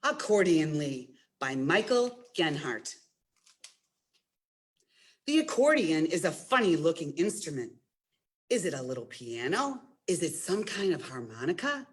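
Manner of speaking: gentle picture-book read-aloud; reading to children. Acted. Librarian reads Accordionly to children, storytime voice. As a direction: tell the story to a room of kids.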